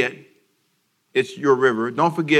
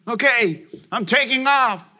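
high, slow, hammed-up announcement; mock pilot boast; 8 semitones higher, slower than usual. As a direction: announce takeoff like a big show. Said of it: "and you says".

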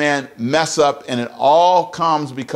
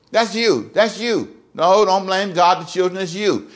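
raised, emphatic voice of God scolding; God speaking; 4 semitones higher than usual. Acted. God tells Adam his job, pitched up and firm. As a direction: lay the responsibility on him, higher.

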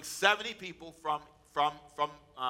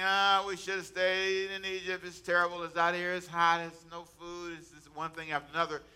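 mock complaining. Israelites grumbling in the wilderness, imitated complaining. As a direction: imitate a grumbling crowd listing gripes. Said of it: "they start complaining".

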